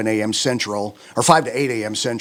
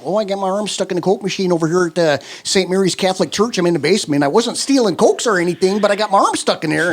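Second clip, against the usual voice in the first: Minnesota character voice; 5 semitones higher, 4 dB louder than usual. Retold or imitated. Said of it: "a Minnesota kind of thing".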